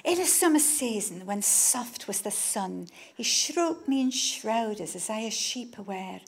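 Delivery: put-on slow, measured reading of old verse; poetry recitation. Author reciting Piers Plowman to the audience, measured and slow. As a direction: intone the lines like a bard.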